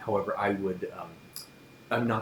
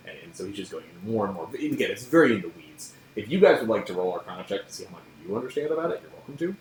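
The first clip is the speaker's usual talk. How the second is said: ordinary talk, nothing marked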